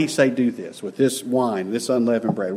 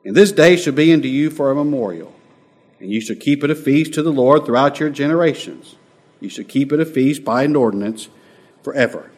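raised, emphatic Bible reading; scripture reading; 4 semitones higher, 5 dB louder than usual. Acted. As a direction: proclaim the verse to the congregation. Reads the scripture verse aloud.

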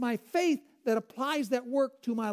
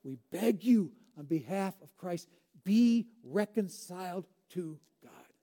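pleading; 3 semitones lower than usual. Acted. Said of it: "And what would God have to say?".

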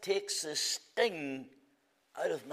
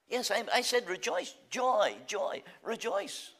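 jubilant rejoicing; 6 semitones higher than usual. Acted. Preacher exults over rejoicing.

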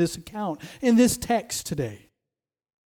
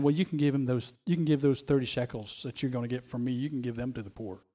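imagined Jesus; 6 semitones lower, 7 dB quieter, faster than usual. Retold or imitated. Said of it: "I can just imagine Jesus saying".

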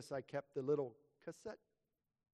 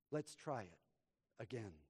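soft, lower gentle father; gently; 3 semitones lower, 4 dB quieter than usual. Acted. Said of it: "my father said gently".

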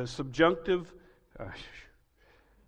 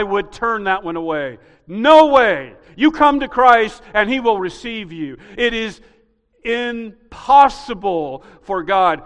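full-force preaching; 4 semitones higher, 10 dB louder than usual. Acted. Preaching climax.

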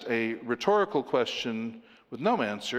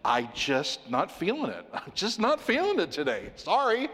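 breezy, dismissive son voice, pitched higher; a flippant son brushing off his father, lightly mocked; casual teenage brush-off; 4 semitones higher than usual. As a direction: shrug it off like a lazy teen. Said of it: "a son doesn't just say to his father".

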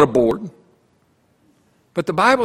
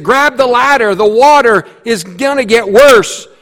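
higher, louder loudspeaker call; calling over a speaker; 7 semitones higher, 5 dB louder than usual. Acted. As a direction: shout it down from the helicopter. Helicopter speaker announcement.

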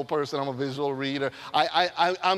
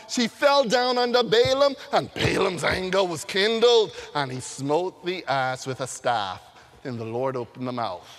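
scripture reading. Shown as a demonstration. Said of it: "let's give it the Bible way".

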